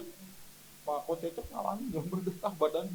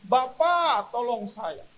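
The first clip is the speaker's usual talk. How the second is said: high, loud drawn-out cry for help; shouting; 8 semitones higher, 7 dB louder, much slower than usual. Retold or imitated. Shaking patient shouts to Jesus, startling the next bed. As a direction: shout each name, then plead. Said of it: "Saya teriak".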